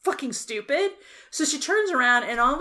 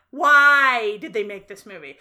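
laughing exasperation; 7 dB louder than usual. Real, not acted. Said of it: "laughing exasperation".

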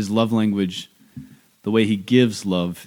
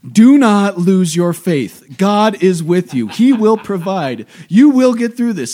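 put-on much higher, loud, slow solemn child voice; earnest child preacher; 11 semitones higher, 8 dB louder, slower than usual. Daughter reading a second grader's letter to her deacon dad, high and solemn. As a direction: deliver it like a grave little prophet. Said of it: "and it's like".

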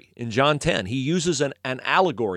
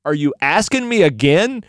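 loud, raised-pitch mock question; needling challenge; 6 semitones higher, 7 dB louder than usual. Healed man provokes officials about following Jesus, needling. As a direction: goad them with a rising taunt. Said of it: "then he really ticks him off".

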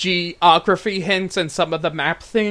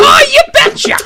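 much higher and louder Minnesota accent; 7 dB louder than usual. Shown as a demonstration. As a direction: belt out a hammed-up Minnesota 'you betcha'. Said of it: "not a bad one for that accent".

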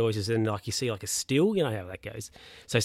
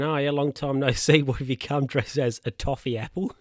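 real laugh breaking into the quote; amused, laughing; 3 semitones higher than usual. Real, not acted. Recapper retelling Bernie's toffee apple jibe to Stan, amused and laughing. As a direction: read the quip while starting to crack up. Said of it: "I don't know why I'm laughing".

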